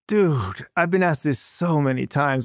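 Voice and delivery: mildly imitated weary annoyance; mock eye-rolling exasperation. Translating the star player's reply to the interviewer, mildly mock-exasperated. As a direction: roll your eyes through it, lightly mimicking. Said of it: "he's rolling his eyes".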